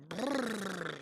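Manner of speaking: loud exasperated lip trill; long buzzing exhale through the lips; blown-lip brrr. Real, not acted. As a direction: blow out a noisy brrr. Venting after a lost hand.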